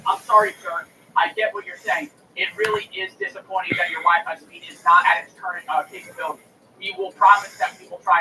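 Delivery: lightly voiced customer service script; imitating a rote apology; mock scripted agent. Customer service rep repeating the script, lightly mocked. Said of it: "they repeat the same fucking sentence".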